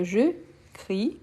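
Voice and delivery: slow "je crie" ending on a clear ee; strong final I. Shown as a demonstration. Teacher modelling the verb crier, "crie" with clear final I. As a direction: pronounce the final I of "crie" fully, E silent. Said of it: "il doit être bien prononcé à la fin".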